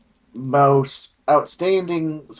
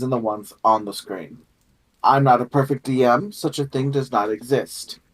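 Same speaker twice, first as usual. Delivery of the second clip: measured, scripted game master's opening address; formal session-opening monologue; prepared welcome speech; much faster than usual. Acted. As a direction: welcome the players with a composed, rehearsed speech.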